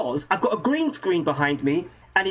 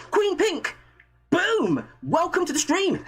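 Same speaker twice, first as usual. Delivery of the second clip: excited shout-out; 9 semitones higher than usual. Real, not acted. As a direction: hype the newcomer up. Shouting out a new viewer.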